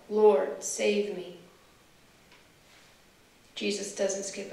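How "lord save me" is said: loud desperate plea; crying out. A narrator's reading. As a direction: call out as if sinking. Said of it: "And he cried out".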